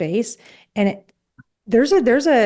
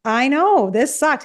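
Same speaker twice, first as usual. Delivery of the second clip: higher, teasing commiseration; playful sympathy; 5 semitones higher, much slower than usual. Retold or imitated. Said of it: "having, like, a playful".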